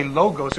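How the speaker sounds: logos said loh-gohs with long O sounds; wrong logos. Shown as a demonstration. Teacher shows the wrong reading, loh-gohs. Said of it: "and it's not".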